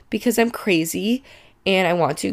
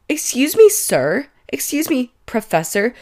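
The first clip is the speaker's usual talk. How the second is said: indignant; 5 semitones higher than usual. Pretend. Indignant address to the professor.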